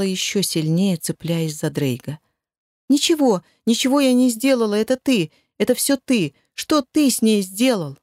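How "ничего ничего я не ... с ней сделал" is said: high, loud and fast, defending herself; raised frantic voice; shrill accusing shout. Acted. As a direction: throw the blame back in a panic. Kayla accuses Elgar hysterically.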